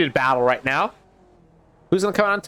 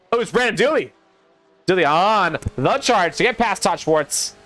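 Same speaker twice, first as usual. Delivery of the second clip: higher-pitched excited race commentary; live play-by-play; 5 semitones higher than usual. Real, not acted. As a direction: call the overtake as it develops.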